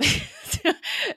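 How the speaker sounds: a short high burst of laughter that falls away; bright laugh. Real, not acted. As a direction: laugh it off quickly. Giggling about Billy.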